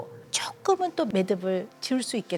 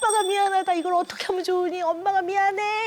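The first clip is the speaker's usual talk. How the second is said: wailing cry; 10 semitones higher than usual. Retold or imitated. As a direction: cry out in anguish, begging forgiveness. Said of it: "소리 지르면서 목 놓아". (높고 크게 울부짖으며 사과하기)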